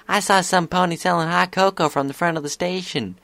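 high-pitched filly voice; Applebloom. A narrator's reading. Filly telling friends about hot cocoa, keen. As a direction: chirp it up high like a kid pony.

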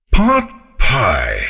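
loud roaring dragon shout; dragon bellow. A narrator's reading. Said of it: "the dragon bellowed".

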